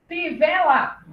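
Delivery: "Fivela" spaced as fi, ve, la; syllable by syllable. Shown as a demonstration. Teacher reading the last word, "Fivela" syllable by syllable. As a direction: give each syllable of "Fivela" its own beat. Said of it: "a sílaba era fi".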